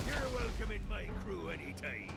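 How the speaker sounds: pirate voice. Acted. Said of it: "drop the pirate voice".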